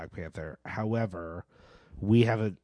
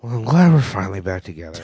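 college radio DJ; 3 semitones lower, 4 dB louder than usual. Real, not acted. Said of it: "you sound like a college radio D J".

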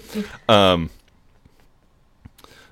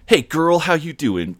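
cheery greeting; 8 semitones higher than usual. Retold or imitated. Acting out a coworker greeting.

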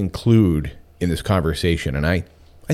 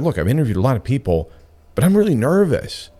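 candid confession; 6 semitones higher than usual. Retold or imitated. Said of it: "I just told her very candidly".

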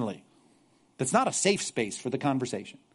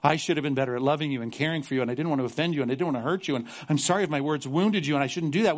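mock apology; 2 semitones lower than usual. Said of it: "they go back and say".

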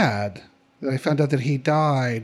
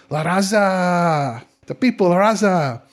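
colorful hippie character; slower than usual. Acted. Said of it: "What a character".

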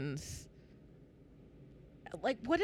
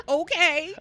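dismissive okay; 6 semitones higher, 7 dB louder than usual. Retold or imitated. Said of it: "It was just".

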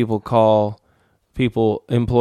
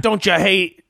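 put-on raised-pitch, lightly piratical Scottish accent; pirate-like Scottish attempt; 5 semitones higher than usual. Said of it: "that was like a pirate".

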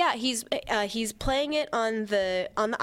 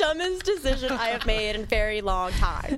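laughing; 3 semitones higher than usual. Real, not acted. Laughing self-mockery.

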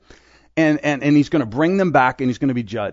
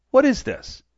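1 indignant question; 11 semitones higher than usual. Acted. Master confronts the steward.

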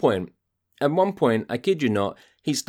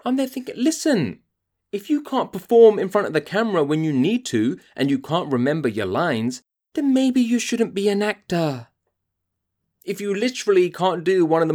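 higher, angry lecture; voice going high; 7 semitones higher than usual. Real, not acted. Ranting host lecturing a forgetful actor, high and angry. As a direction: pitch up with rising outrage. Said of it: "My voice is going so high".

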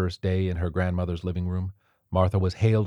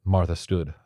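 ordinary delivery

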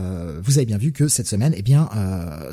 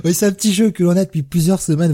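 barely keeping a straight face; trying not to laugh; 5 semitones higher, 3 dB louder than usual. Real, not acted. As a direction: laugh still in the voice. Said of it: "j'essaie de garder mon sérieux".

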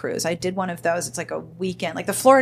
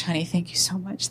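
gushing thanks; 7 dB quieter than usual. Retold or imitated. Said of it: "she kept saying to him".

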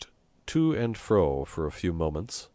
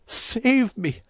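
high-pitched, louder cry for help; terrified sobbing plea; 5 dB louder than usual. A narrator's reading. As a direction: beg desperately to be rescued. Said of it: "he sobbed".

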